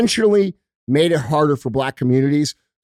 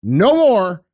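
slow, firm no more; united, steady stop; firm drawn-out refusal; 3 semitones higher, 4 dB louder, much slower than usual. Retold or imitated. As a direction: say it slowly like a line in the sand. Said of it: "if we all say".

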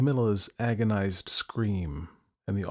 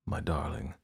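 whispered; 5 semitones lower, 6 dB quieter than usual. Acted. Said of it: "Louis whispered".

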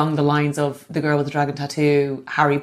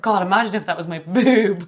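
exclaiming; 3 semitones higher than usual. Retold or imitated. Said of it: "And I was like".

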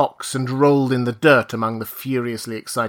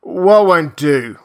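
put-on slow, louder drunken grumble, slurred and heavy; a lightly voiced drunk sea captain; 4 semitones higher, 6 dB louder, much slower than usual. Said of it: "the dull and solemn eyes of a drunken man".

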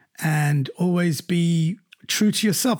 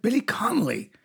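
higher-pitched impression of an American star; Whoopi Goldberg; 5 semitones higher than usual. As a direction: imitate her American delivery, pitched up. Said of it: "And she said".

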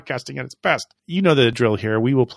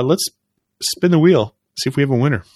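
game show hype; 3 semitones higher, 4 dB louder than usual. Acted. Game show style drawing.

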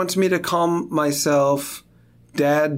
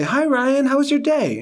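cheery voice; 11 semitones higher than usual. Retold or imitated. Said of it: "I'm gonna say".

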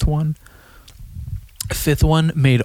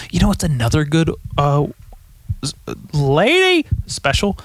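Bill Burr impression; 3 semitones higher than usual. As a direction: let a bit of a grumpy Boston comic take over. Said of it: "Bill Burr right there".

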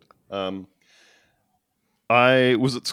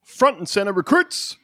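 lightly voiced drill sergeant; a hint of barking orders. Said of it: "I'll be your drill sergeant".

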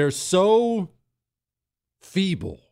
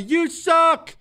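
high, louder playful jeer; high yelled ribbing; mock smack talk; 4 dB louder than usual. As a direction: taunt a buddy.

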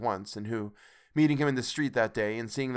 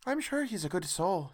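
high-pitched wife's voice; Missus Cratchit; 9 semitones higher, 3 dB quieter than usual. A narrator's reading. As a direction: voice the mother well above narration. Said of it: "said Missus Cratchit".

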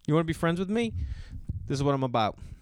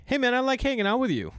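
imitating a friend; 11 semitones higher than usual. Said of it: "guys will be like".

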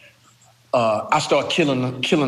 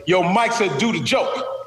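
mock yell; 4 semitones higher than usual. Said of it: "So then the dude yelled".

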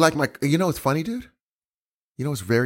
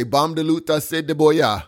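mock Jamaican words. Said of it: "Jamaican sounding words".

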